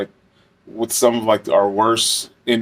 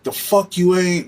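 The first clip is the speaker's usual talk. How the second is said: sneering inmate comeback; 7 semitones higher than usual. Retold or imitated. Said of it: "he was like".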